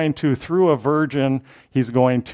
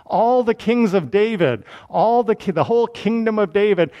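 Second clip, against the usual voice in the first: higher, ringing prophet's address; formal, raised-pitch public summons; prophetic proclamation; 5 semitones higher than usual. Acted. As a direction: proclaim it to a whole dynasty. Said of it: "now he's proclaiming to".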